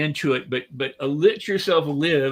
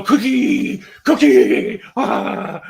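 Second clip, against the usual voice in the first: put-on high, loud, childish "cookie"; imitating a thrilled toddler; excited child; 7 semitones higher, 8 dB louder, much slower than usual. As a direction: squeal like a delighted little kid. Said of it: "he'd go".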